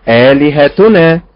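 آلهتنا slow, with correct stress. Shown as a demonstration. Teacher modelling the correct reading slowly. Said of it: "الصحيح الأداء الأول".

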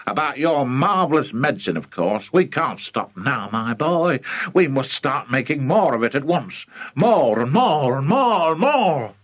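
mildly excited, building to eager insistence; a touch of fervour, growing at the end; excited father. Acted. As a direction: let enthusiasm swell on each repeated word. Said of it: "state of greater excitement than ever".

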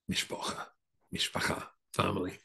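softly whispered, almost breathed out. Real, not acted. To the minister's wife, whispering the magic word. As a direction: hush it like a secret password.

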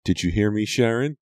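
high, rising demanding question; shouted. A narrator's reading. Scarred girl confronting her killer, shouting. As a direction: call it out, pitch climbing on the name. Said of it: "the girl shouted".

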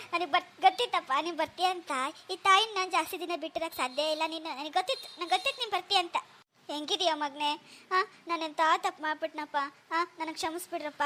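quietly tearful apology to her son; tearful mother. Acted. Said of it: "ಅಳ್ಬೇಡ ಬಿಡಮ್ಮ". (ಮಗನ ಮುಂದೆ ಮೃದುವಾಗಿ ಅಳುತ್ತಾ ಕ್ಷಮೆ)

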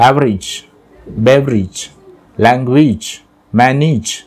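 "એવરેજ, બેવરેજ, લેંગ્વેજ, મેનેજ" each ending in a short -ij; correct English pronunciation. Shown as a demonstration. Teacher listing examples of A as i, each word ending in -ij. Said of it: "So that is the correct pronunciation".

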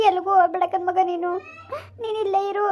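tearful plea to stay; crying. Acted. Stepmother begging her stepdaughter to stay, crying. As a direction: beg her not to leave, sobbing. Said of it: "ಅಳ್ಬೇಡಿ".

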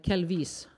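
Kelvis said as Elvis with a K in front. Shown as a demonstration. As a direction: stress the first syllable, KEL-vis, rhyming with Elvis. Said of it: "like Elvis with a K".

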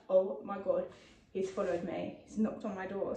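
low, softened, mildly spooked thought; retold hushed alarm. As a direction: voice the worry under your breath. Retells fear of being followed home.

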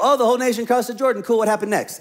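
lightly voiced casual reader; mock casual. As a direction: brush it off like it's nothing. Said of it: "we read that and we go".

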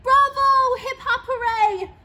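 very high, loud bravo and hooray; joyous cheer. A narrator's reading. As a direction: burst out cheering. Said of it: "Clorinda cried".

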